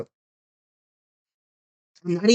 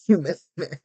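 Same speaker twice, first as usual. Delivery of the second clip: laughing taunt; 4 dB quieter than usual. Pretend. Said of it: "taunt with laugh".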